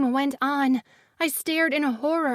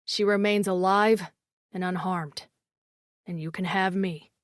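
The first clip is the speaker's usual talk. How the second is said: low male voice; 7 semitones lower than usual. A narrator's reading. Phoenix bargaining.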